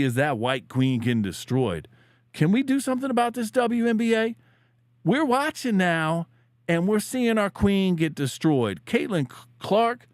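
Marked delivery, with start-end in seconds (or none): 2.3-10.1 hammed-up outcry over the WNBA; mock outrage. Complaining to his viewers about Caitlin Clark, in hammed-up outrage.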